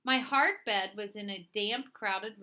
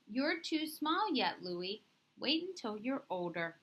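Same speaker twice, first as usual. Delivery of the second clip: gently; 2 semitones higher than usual. Acted. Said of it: "Then more gently".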